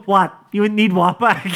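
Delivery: high, playful retold bouncer voice; hammed-up innocent denial; mock innocent bouncer.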